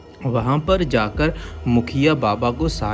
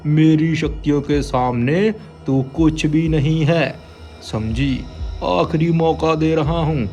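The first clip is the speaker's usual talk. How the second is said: threatening holy man; 5 semitones higher than usual. Acted. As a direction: warn with power. Baba threatens witch. (चेतावनी देता बाबा)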